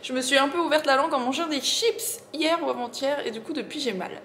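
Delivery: slight lisp from a sore tongue; lisping a little, slushy s sounds. Real, not acted. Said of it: "Je zozote un petit peu".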